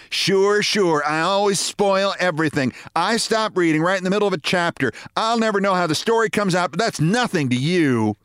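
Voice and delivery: a wife martyring herself sarcastically; sulky sarcastic wife. Acted.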